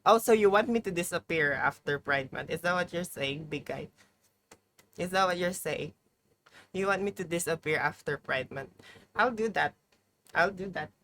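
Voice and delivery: playfully hammed-up telenovela indignation; a touch of mock drama, like a telenovela madame; mock dramatic. Streamer teasing big guy about disappearing after Pride Month, mock dramatic. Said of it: "I'm just being dramatic".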